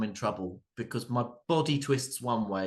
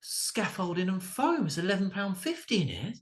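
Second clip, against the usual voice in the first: grumbling dad; 8 semitones higher than usual. Retold or imitated. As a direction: put on a fed-up dad griping about the price. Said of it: "the dads looking around going".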